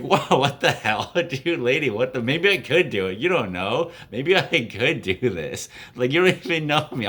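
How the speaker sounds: retold, mildly indignant protest; half-laughing mock offence; offended. Guy protesting to his date that he could do it, offended. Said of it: "I was, like, really offended".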